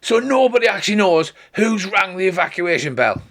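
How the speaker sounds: high, exasperated acted demand; hammed-up cross questioning; angry shouting. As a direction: raise the pitch in mock outrage. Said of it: "starts shouting at the top of her voice".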